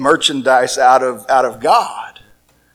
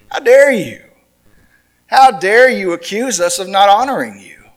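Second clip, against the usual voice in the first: indignant; 4 semitones higher than usual. Retold or imitated.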